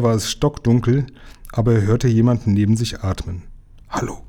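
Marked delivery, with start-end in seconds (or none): 3.9-4.2 soft whispered hello. A narrator's reading. Lukas calling softly in the dark prison, whispering. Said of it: "flüsterte er".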